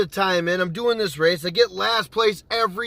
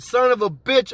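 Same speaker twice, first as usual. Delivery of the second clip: retold angry curse; 6 semitones higher, 4 dB louder than usual. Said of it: "I get mad".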